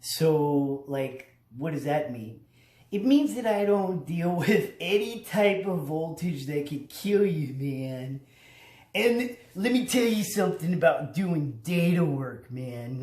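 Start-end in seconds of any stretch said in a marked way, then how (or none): 2.9-13.0 laid-back data guy. Pretend. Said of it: "I'm a low voltage electrician".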